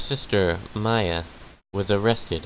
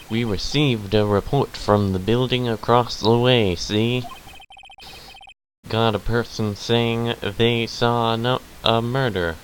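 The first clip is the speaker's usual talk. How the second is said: put-on southern accent.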